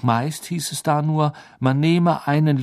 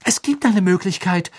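higher and louder, adamant; insistent; 8 semitones higher, 7 dB louder than usual. A narrator's reading. Hermine refusing to give up, louder and higher. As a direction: insist there has to be a way. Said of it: "sagte Hermine".

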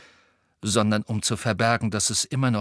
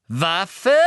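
louder, rising repeated question; excited; 6 semitones higher, 4 dB louder than usual. A narrator's reading. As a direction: seize on the word. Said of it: "Augen schienen vor Aufregung".

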